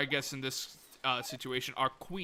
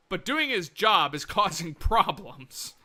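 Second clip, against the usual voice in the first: laughing; 3 semitones higher, 5 dB louder, slower than usual. Real, not acted. Laughing while stressing doing.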